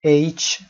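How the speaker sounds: H said clearly as "eitch"; careful pronunciation. Shown as a demonstration. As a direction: model the letter H as "eitch". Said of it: "بحث تلفظ H هست". (تلفظ دقیق H به صورت «اِیچ»)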